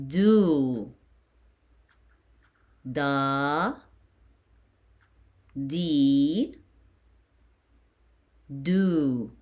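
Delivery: "da, di, do" as long dah, dee, doo; "da" and "di" rising, "do" falling, each held; vowel drill. Shown as a demonstration. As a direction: chant out "da, di, do" with long pauses to repeat. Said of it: "So it's going to be".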